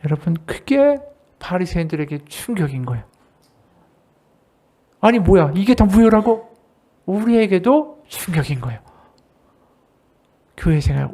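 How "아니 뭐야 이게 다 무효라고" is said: louder incredulous outburst; shocked disbelief. Acted. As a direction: react as if all your work was voided. Shocked Pharisees voiced. (바리새인들의 충격받은 놀란 반응)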